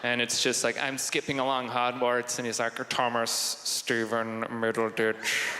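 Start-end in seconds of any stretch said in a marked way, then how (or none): 2.9-5.6 low, very slow Snape drawl; Snape's voice. Acted. Snape catching the boy doing magic, very slow low drawl. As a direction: savour each word like a disdainful professor. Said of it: "Snape's voice".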